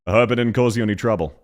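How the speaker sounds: fast, broad Australian with swallowed vowels; Australian accent. Shown as a demonstration. Streamer answering the game clip with a proper Australian accent. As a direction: rattle it off like a real Aussie. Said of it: "more Aussie than whatever the fuck this is".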